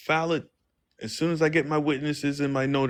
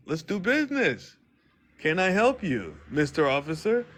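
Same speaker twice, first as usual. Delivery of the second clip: polite business voice; 4 semitones higher than usual. Retold or imitated. Playing polite businessman to officer.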